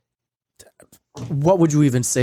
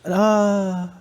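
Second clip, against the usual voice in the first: higher, hesitant put-on denial; lightly mocked evasive host; 5 semitones higher than usual. Odd host answering guests about a cat, mock-evasive voice. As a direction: imitate someone awkwardly dodging a question.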